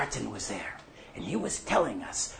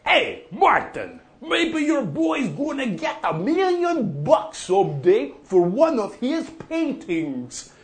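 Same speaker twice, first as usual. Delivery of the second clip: teasing call; 8 semitones higher than usual. Retold or imitated. Gordon teasing Martin at pub.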